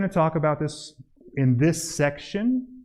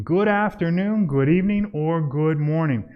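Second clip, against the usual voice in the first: demo door greeting; 2 semitones higher than usual. Shown as a demonstration. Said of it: "you wanna start speaking".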